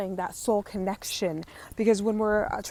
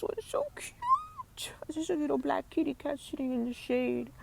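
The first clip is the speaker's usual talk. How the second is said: hushed, much higher whisper; whispering to listeners near a cat, hushed; 8 semitones higher, 5 dB quieter than usual. Real, not acted. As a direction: whisper excitedly so you don't scare the cat. Whispering so cat isn't scared.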